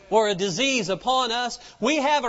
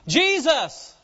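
raised, drawn-out call for Jesus; crying out; 4 semitones higher, 3 dB louder than usual. Retold or imitated. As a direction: retell a blind man's cry, voice lifted. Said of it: "So they started crying out".

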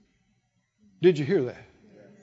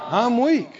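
soft, feeble mock complaint; quietly hammed-up feeble whine; weak complaining; 4 semitones lower, 4 dB quieter than usual. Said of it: "Let the weak say".

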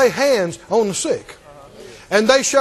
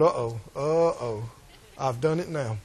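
scared whisper-thought; 9 semitones lower, 9 dB quieter than usual. Retold or imitated.

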